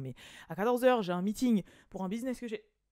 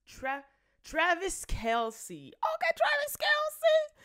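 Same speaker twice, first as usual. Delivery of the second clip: slow discovery; much slower than usual. Real, not acted. Reads found name off screen.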